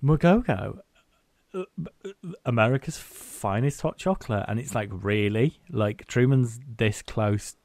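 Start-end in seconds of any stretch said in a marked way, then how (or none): 0.0-4.4 hammed-up ad voice, higher and louder; mock product pitch. Actress breaking to camera for an ad, mock pitch. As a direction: sell it like a cheesy commercial. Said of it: "turns to the camera and goes".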